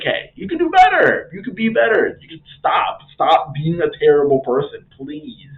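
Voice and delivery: high, imploring mock plea; mock pleading. Atreus begs defeated Odin to do better, mock pleading.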